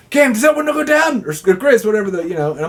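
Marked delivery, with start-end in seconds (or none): 0.1-1.2 imitating Squatch. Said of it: "Squatch goes".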